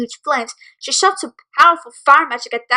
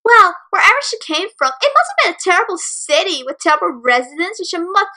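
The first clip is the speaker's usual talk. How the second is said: higher, sneering insult; mocking; 5 semitones higher than usual. Bully insulting her parents, a sneering mocking tone. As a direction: drip contempt on every terrible. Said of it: "Thatcher said with a mocking voice".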